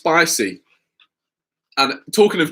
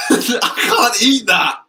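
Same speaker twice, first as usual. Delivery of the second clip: disgusted protest; 7 semitones higher, 3 dB louder, much slower than usual. Real, not acted. Disgusted at smelly banana.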